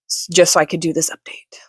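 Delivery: murmured under the breath; whispered aside. Real, not acted. Aside while kids on tablet.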